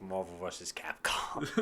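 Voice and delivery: low, soft mock announcer; lightly voiced announcer breaking into laughter; game announcer. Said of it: "the announcer from Mar".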